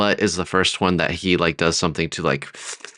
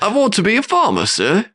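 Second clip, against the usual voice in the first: reluctant minion; 13 semitones higher than usual. Acted. Voicing a reluctant demon minion.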